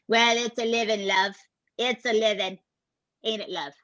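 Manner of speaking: lightly imitating a woman's thick British accent. Woman shrugging off an interviewer's question, imitated thick British accent. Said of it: "this woman with a very thick accent".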